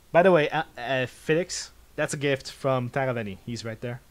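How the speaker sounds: measured narrator read of the scene; calm game narrator voice; story narration. A narrator's reading. Reads game narration aloud.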